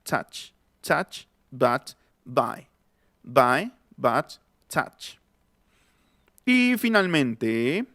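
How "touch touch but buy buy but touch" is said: "touch" as "tach", words drilled one by one; corrected vowel. Shown as a demonstration. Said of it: "ya va a ser touch".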